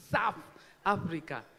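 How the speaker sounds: each word of South Africa spelled out deliberately; slow careful South Africa. Shown as a demonstration. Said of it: "my teeth are missing in front here".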